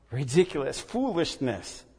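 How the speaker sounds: drawn out slow and scornful; contemptuous aside. Acted. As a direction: let the word drip with scorn. Scornful verdict.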